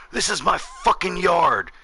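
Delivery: put-on high, slow, outraged old man; mock an irate neighbor's rant; imitated angry yelling. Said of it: "in my face screaming and yelling".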